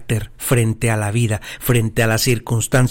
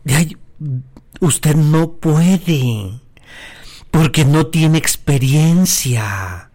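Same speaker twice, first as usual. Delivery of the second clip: condescending; 3 semitones higher, much slower than usual. Retold or imitated. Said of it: "¿Qué le está diciendo?".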